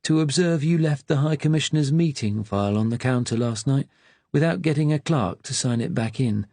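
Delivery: a lightly voiced old clerk, slow and mournful; an old registrar gently rebuking a junior, slow and sad. A narrator's reading. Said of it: "in his slow, sad voice".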